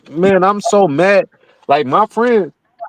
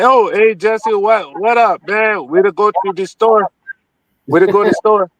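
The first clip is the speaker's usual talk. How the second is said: imitating a West African accent, casual; lightly put-on West African accent. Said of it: "I talk to you with the African accent".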